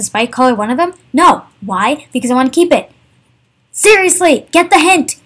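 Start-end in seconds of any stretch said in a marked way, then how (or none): 3.7-4.5 annoyed. Real, not acted. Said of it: "that little mini rant". 4.5-5.2 annoyed. Real, not acted. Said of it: "that little mini rant".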